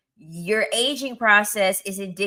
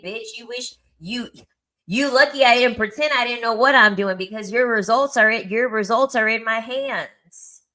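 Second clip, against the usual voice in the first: inner scornful retort; 2 semitones higher than usual. Retold or imitated. Nurse to her patient, a mock-haughty retort. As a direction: sneer it like you hold all the power. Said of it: "in my head, I'm thinking".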